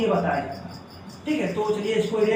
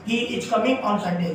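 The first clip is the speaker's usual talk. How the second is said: slow demo reading; much slower than usual. Shown as a demonstration. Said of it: "हम लोग ऐसे ही पढ़ते चले आ रहे हैं".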